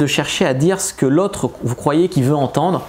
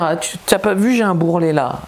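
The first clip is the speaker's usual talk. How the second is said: higher, mocking ditzy girl; mock a fishing-for-compliments girl; a touch of a silly girly voice; airhead voice; 4 semitones higher than usual. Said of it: "je fais des voix de conne".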